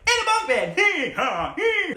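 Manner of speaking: high giggly quoted line; playful laughing mimic; laughing quote. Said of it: "you're like".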